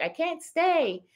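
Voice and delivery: high, drawn-out mock lament; imitating a viewer. Quoting a viewer who had to leave, high mock regret.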